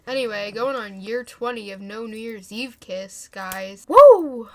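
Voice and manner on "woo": loud, higher sarcastic whoop; mock cheer. Real, not acted. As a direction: cheer the sad streak ironically. Sarcastic cheer for no-kiss streak.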